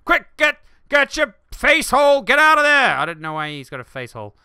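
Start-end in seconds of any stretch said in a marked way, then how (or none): 0.0-3.0 high, loud panicked yelling; panicked mechanic. Retold or imitated. Mechanic screaming to flee the spooky ride, loud panic. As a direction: yell it like a terrified mechanic fleeing. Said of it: "This mechanic's like".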